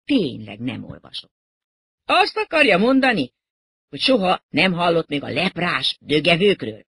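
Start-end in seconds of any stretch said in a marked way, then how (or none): 2.1-6.9 high, loud disbelief; incredulous question. Acted. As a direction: ask in offended amazement. Rocker astonished they don't know band.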